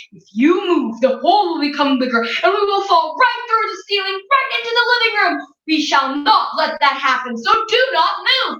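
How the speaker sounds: urgent, rising father's warning; a lightly voiced worried husband; anxious father. Mister Watson warns his wife.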